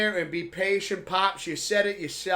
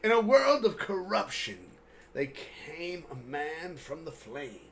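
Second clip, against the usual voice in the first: movie trailer voice; 3 semitones lower than usual. Acted. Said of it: "that voice actor thing".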